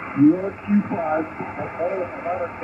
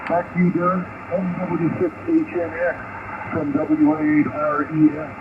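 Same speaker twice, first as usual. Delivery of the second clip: distant voice through a ham radio; fading shortwave radio. Real, not acted. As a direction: sound like you're on shortwave. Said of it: "a lot of Q S B on you".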